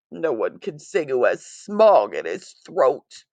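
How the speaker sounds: lightly voiced Lorax, a touch of croak and a cough; croaky Lorax. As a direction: scold through a mild croak. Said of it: "with a cruffulous croak".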